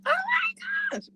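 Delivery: high squealing oh my gosh; excited squeal. Real, not acted. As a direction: squeal it out with joy. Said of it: "squeaking and squealing".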